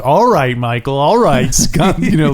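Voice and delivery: mock Kay. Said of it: "Kay was like".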